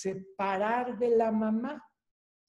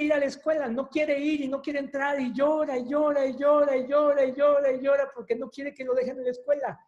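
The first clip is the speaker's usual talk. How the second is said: llanto insistente; 5 semitones higher than usual. Retold or imitated. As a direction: pile on the crying of a kid who refuses school. Niño llora, no quiere escuela. (cada "y llora" más agudo y fuerte, como niño que no quiere quedarse)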